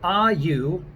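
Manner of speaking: British accent, drawn-out demo phrasing; deliberate British English. Shown as a demonstration. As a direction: show the British R slowly. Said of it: "that English pronounce R's is the same way".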